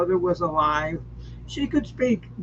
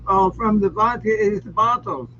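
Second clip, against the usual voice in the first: mock Russian accent; 4 semitones higher than usual. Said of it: "you use my Russian accent".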